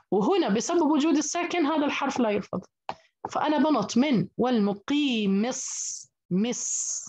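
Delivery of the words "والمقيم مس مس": "والمقيم مس" drawn out slowly, jumping from the kasra mim straight to a held sad; slow recitation drill of "مس"; slow recited demo. Shown as a demonstration. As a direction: isolate "مس" with a long, held sad. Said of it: "على طول بنتقل من الميم المكسورة إلى الصاد".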